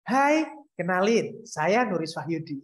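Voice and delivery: friendly greeting with a little smile; smiling, welcoming self-introduction; slight smile. Shown as a demonstration. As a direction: lift and stretch the hello, smiling. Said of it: "dengan ditambahin senyum dikit".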